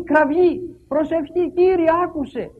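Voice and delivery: loud, high cry to God; David's cry. Retold or imitated. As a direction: cry out to the Lord. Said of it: "φωνάζει ο Δαβίδ". (δυνατή κραυγή προς τον Κύριο)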